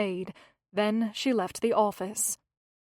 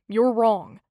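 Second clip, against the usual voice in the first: firm, louder denial; with conviction; 7 dB louder than usual. Acted. Gilbert to Hazel, firmly correcting her. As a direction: shut the idea down firmly. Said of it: "he said with conviction".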